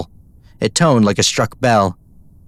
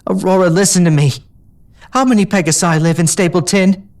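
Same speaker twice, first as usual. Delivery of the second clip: urgent; 8 semitones higher than usual. A narrator's reading. Urgent persuading.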